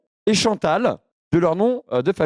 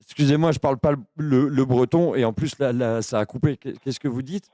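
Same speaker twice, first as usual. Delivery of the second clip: low, halting, lonely oddball; dopey confused voice; 7 semitones lower, 4 dB quieter than usual. Acted. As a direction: play a muddled lonely man rambling. Keeps confused caller character.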